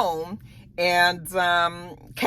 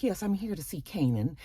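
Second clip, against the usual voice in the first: stressed social worker; 8 dB quieter than usual. Retold or imitated. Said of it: "stressed out white woman".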